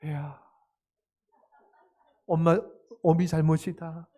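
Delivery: mock tearful apology, haltingly paced; a parent pretending to choke up while taking the blame. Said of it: "눈물을 이렇게 흘리면서". (눈물 흘리는 어머니 흉내)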